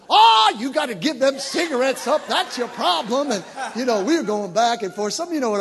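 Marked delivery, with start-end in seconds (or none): 0.1-3.3 higher, louder imitated reproach; mock scolding. Church mothers getting in the smoker's face, mock scolding outburst. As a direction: burst out as if the culprit is found. Acted scolding about smoking.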